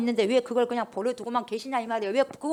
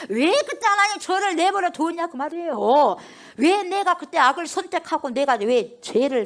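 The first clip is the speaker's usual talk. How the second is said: defiant protest; 6 semitones higher, 4 dB louder than usual. Retold or imitated. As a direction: hurl the complaint at God like a rebel. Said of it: "막 그러는 거예요. 막 대들어요".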